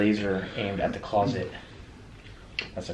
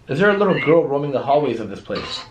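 raised, louder questioning voice; calling out; 4 semitones higher, 5 dB louder than usual. Real, not acted. Investigator asking about a little girl, calling out. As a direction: call the question down the hallways.

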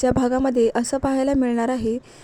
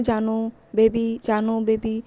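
slow, softer teasing coo of pet names; mock lovey-dovey pet names; 3 dB quieter, slower than usual. Brother teasing Akshay by mimicking lovey-dovey pet names, soft and slow. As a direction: mimic a couple cooing at each other, slowly and softly. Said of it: "कसं एकमेकांना".

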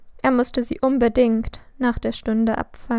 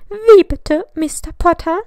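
sharp, much higher and louder outraged teacher; menacing question; 6 semitones higher, 7 dB louder than usual. A narrator's reading. Stern professor calls out the pupil who cursed in class, menacing. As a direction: demand an answer, daring him to repeat it. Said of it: "fragte Professor McGonagall bedrohlich".

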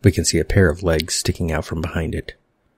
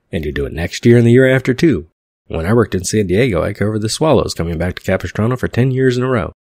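raised voice; 3 semitones higher, 5 dB louder than usual. Acted. Holly insisting, reading as boss.

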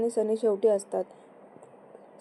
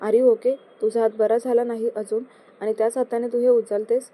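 angry scolding. Acted. Husband scolds wife for lifting printer, mildly angry. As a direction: scold her for lifting it with a hurt hand. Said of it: "सनी चिडून".

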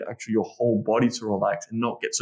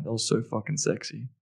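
soft, much quieter intimate murmur; whisper; 6 dB quieter than usual. Shown as a demonstration. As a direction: say it right into her ear. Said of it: "whisper in her ear".

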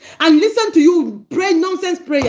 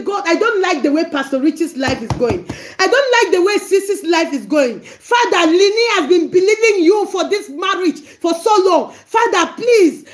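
demo intercession prayer. Shown as a demonstration. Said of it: "you have the right to step in and say".

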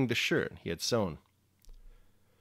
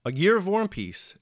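"A Year of War and Peace" called out higher and louder; announced title; 8 semitones higher, 5 dB louder than usual. Shown as a demonstration. Podcaster opening his reflection, announcing the title. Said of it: "title announcement".

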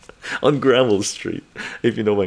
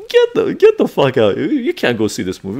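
mock angry ticket seller; 2 semitones higher than usual.

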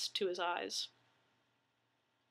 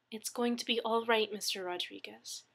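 reassuring; 3 dB quieter than usual. Acted. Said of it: "Dana assured him".

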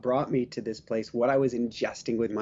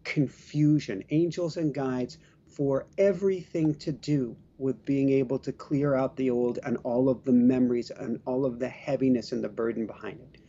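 prayer invocation. Acted. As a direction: call in the angels gently and deliberately. Leads an angel prayer invocation.

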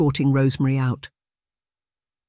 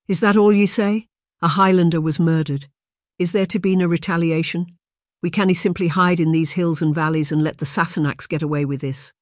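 raised, indignant Highland protest; outraged demand; 3 semitones higher than usual. Acted. Blair confronts his father over the murder, outraged. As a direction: push back hard, demanding revenge.

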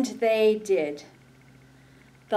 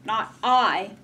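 quacking duck voice; 5 dB louder than usual. Acted. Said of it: "quacked the duck".

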